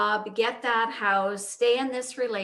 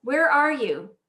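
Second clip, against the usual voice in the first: higher-pitched call to someone unseen; lightly acted shout of questioning; 5 semitones higher, 3 dB louder than usual. Man on the cliff to the unseen voice, calling out. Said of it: "calls out".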